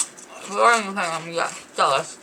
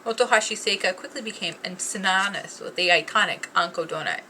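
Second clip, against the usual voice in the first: ad read. Acted. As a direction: read it like a polished ad. Reads product description card.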